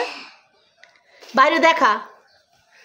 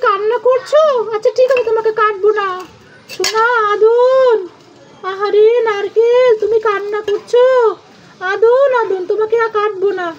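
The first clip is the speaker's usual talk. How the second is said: soothing; 4 semitones higher than usual. Pretend. Soothing the crying coconut.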